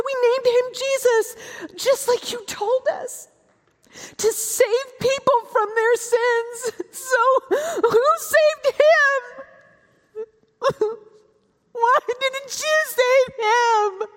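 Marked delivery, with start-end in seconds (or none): 2.5-9.2 crying. Acted. Grieving mother cries out to God. 11.7-14.1 tearful. Acted. Grieving mother cries out to God.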